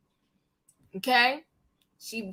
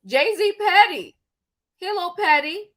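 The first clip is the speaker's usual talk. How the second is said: sassy gossip; 3 semitones higher, 3 dB louder than usual. Real, not acted. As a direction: lean into the shade. Host gossiping about a rapper.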